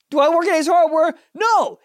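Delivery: loud, high, sarcastic question and answer; mock them with an obvious question; sarcastic rhetorical question. Mocking the clerks who never look up, loud sarcasm.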